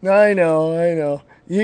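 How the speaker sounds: ordinary talk, nothing marked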